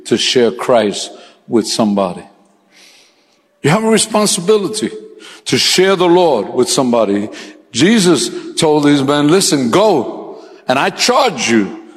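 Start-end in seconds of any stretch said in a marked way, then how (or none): 3.6-7.3 sermon emphasis; preaching emphasis. Real, not acted. 7.7-11.8 slow, building preacher's charge; building sermon charge; preaching build. Real, not acted.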